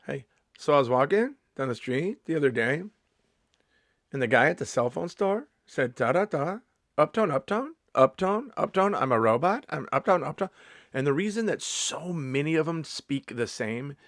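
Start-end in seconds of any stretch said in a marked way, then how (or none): 0.1-10.5 every phrase swings up at the end, as on "uptone"; robotic comic cadence, each phrase ending on a rising "uptone"; exaggerated uptone. Shown as a demonstration. Mocking how comics talk the same on stage, exaggerated uptone. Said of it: "The uptone".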